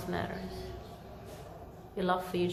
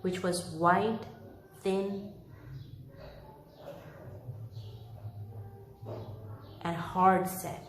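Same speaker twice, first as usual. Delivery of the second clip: story narration. A narrator's reading. Reads Dickens chapter aloud.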